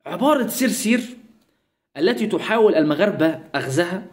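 pompous news-style read-out of the quote; mock formal reading. Mocking the Algerian page's post with a stiff formal reading. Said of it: "بيقول لك ايه بقى".

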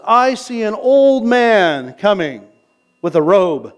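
lightly acted medium, slow and drawn out; mock medium. Preacher imitating a medium's broad generalities, slow mock-medium delivery. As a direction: stretch it out like a medium having a vague vision. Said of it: "mediums can speak in broad generalities".

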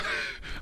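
short, soft burp. Real, not acted. Player excusing themself mid-game, burp. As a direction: let out a small burp. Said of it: "I'm burping a lot".

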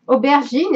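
"aubergine" said the French way; French pronunciation. Real, not acted. Explaining how she knows the word, French-style "aubergine". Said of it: "I probably pronounce it the French way".

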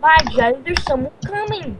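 mock-British leader voice. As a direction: play a British group leader, lightly. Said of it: "in British, in the Brit".

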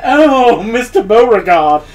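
flutter it like a Southern Belle, lightly. Acted. Gamer mocks her character as a Southern Belle. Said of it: "doing the whole Southern Belle voice".

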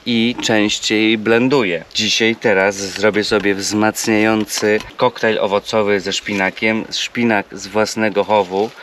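even, measured product pitch; sponsor ad read. Real, not acted. Vlogger recommending a travel blender to viewers, ad read.

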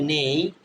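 নেই as "nay", with a gliding vowel; pronunciation of নেই. Shown as a demonstration. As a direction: stretch নেই into "ne-i". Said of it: "যেমন এন এ উচ্চারণ হবে".

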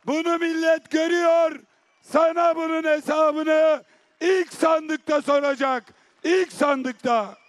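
impassioned rally oratory; rally speech. Acted. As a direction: address the crowd with defiance. Defiant climax of political speech.

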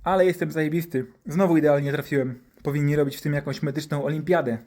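mildly smug self-praise; a touch of swagger; boasting doctor. Acted. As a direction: brag about your perfect aim. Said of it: "przechwalał się doktor".

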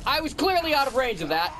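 shocked gamer cry; outraged disbelief. Real, not acted. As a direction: protest a cheap kill at full pitch. Outraged at unfair death.

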